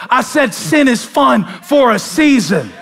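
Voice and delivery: season hit loud and slow; stress on season. Shown as a demonstration. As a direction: lean hard on the word season. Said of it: "Emphasis on season".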